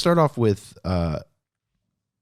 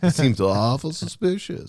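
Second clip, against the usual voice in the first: mock suspicious; 7 semitones higher, 4 dB louder than usual. Teasing about cough and incense.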